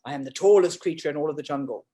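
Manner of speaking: low, lofty giraffe voice; lightly voiced stately giraffe. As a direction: announce it grandly from a great height. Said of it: "the giraffe looks down and says".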